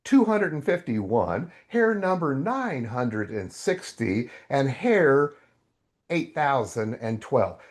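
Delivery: slow, lightly voiced patient God; gentle God. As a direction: count each hair slowly, like a patient father. God gently answers the narrator.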